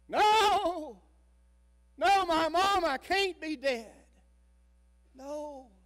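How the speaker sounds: high, loud, drawn-out cry of disbelief; a girl screaming on hearing her mother died; anguished scream. Retold or imitated. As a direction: scream it out in shock and grief. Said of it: "Susie screamed".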